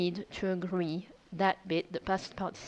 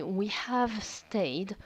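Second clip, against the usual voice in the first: slow model phrase; much slower than usual. Shown as a demonstration. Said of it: "So if I want to say".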